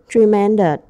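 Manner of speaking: Tremendous with MEN stressed; stress on second syllable. Shown as a demonstration. Teacher modelling stress for the class, second syllable stressed. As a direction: lean on the second part of Tremendous. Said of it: "Ta nhấn phần hai".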